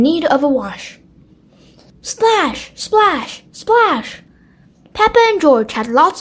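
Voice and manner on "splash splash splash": playful splashes. A narrator's reading. Splashing in the bath.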